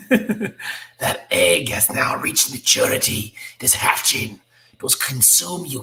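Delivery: slow, breathy, menacing alien whisper; whispery alien voice. Acted. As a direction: hiss it out like a cold alien queen. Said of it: "just do a different voice".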